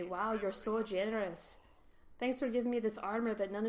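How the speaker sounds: sarcastic thanks to the dwarves for useless armor. Real, not acted. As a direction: drag it out, thanking them with obvious sarcasm.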